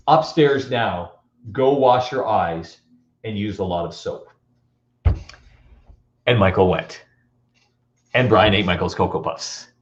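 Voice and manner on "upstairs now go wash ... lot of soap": mock stern order. Older brother orders the younger.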